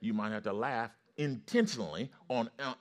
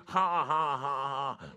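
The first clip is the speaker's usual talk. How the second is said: loud, higher mock belly laugh; imitated triumphant laughter; 4 semitones higher, 4 dB louder, much slower than usual. Healed friend on the side of the bed, imitated triumphant laughter. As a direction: burst into big imitation laughter. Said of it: "laughing in the Holy Ghost".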